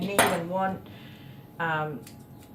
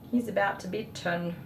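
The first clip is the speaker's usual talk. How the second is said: softer, welling up with emotion; real emotion breaking through, softer; choked up; 4 dB quieter than usual. Real, not acted. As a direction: let the pride catch in your throat. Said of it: "Sorry, I do get so emotional".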